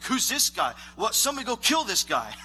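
hammed-up dismissive outburst; mock disbelief. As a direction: imitate warriors scoffing at a kid. Acting out warriors seeing the kid.

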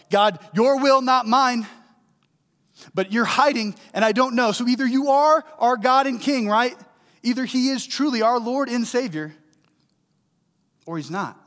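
loud, high cry to God; impassioned preaching. Acted. Preacher wrestling aloud with whether God is present, impassioned.

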